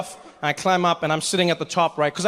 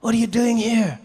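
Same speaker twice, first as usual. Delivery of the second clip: higher, offended demand to an intruder; mock indignant challenge; 4 semitones higher than usual. Host confronting an unwanted guest, mock indignant. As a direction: act out an accusing look as words. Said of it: "just with his eyes, he was like".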